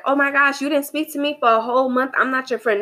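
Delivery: mildly hammed-up complaint, quickening midway; mock offended friend. Voices an offended needy friend.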